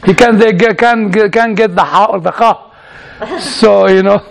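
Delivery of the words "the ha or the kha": "ha" and "kha" as throaty Hebrew consonants; guttural Hebrew pronunciation. Shown as a demonstration. Teasing a colleague's Hebrew, guttural "ha" and "kha". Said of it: "the way it should be pronounced".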